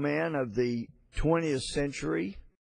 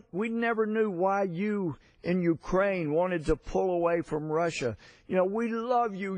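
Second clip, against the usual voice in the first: higher, lightly voiced tipsy Russian patriarch; boisterous drunk patriarch; 5 semitones higher than usual. Tipsy patriarch tells Ukrainian singer we love you, higher boisterous plea. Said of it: "the boisterous Russian patriarch".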